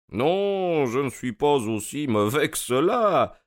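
high, lilting protest with a smile; amused, smiling detective. A narrator's reading. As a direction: deny it with playful good humour. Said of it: "fit Holmes en souriant".

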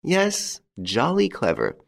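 spoken up firmly, "Yes" pitched high; confident accusation at full voice; insistent repeat. A narrator's reading. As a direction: repeat it aloud with conviction. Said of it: "that he repeated".

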